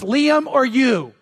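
slow, weighed-out words with a pause between; dramatic slow choice. Acted. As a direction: let each option hang. Forced choice in illustration.

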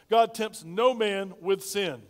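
each word spaced out slowly; slow deliberate model line; slow emphatic statement. Shown as a demonstration. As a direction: lay it down slowly, word by word, for them to repeat. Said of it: "Say that with me".

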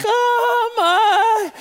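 high, loud, drawn-out comic dodging; hammed-up evasive squeak; sheepish stalling. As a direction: stall nervously, stretching the words up high. Retold evasive answer to wife.

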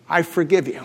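soft, quiet, sincere; tender forgiveness. Retold or imitated. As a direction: say it gently, barely above a breath. Victim forgives dying attacker.

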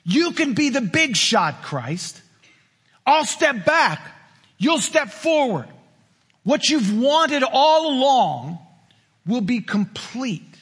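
slow, high seductive villain voice; the devil luring Jesus like a Star Wars emperor, slow and seductive; tempting villain. Acted. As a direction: purr it like a movie villain tempting a hero. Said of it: "This sounds like Star Wars".

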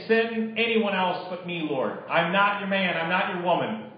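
earnest, measured closing prayer. Acted. Pastor praying for the congregation, earnest and calm. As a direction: pray on behalf of the congregation.

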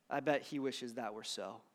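soft, quiet reply; very quietly. Retold or imitated. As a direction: say it almost under your breath. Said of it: "replied very quietly".

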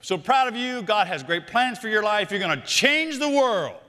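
mock the gushing commencement speech; cheesy graduation speaker. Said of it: "Instead of standing up and saying".

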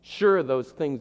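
ordinary talk

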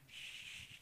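soft, long shush; disapproving "shh". Acted. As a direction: hush them behind the scenes. Acts out disciples hushing people.

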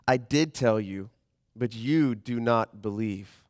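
slow scripture reading. Acted.

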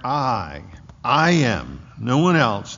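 "I" set apart, then "I am" hit firmly; emphatic I AM. Shown as a demonstration. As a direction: punch "I am" and "no one else", each falling. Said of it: "It's emphatic there".

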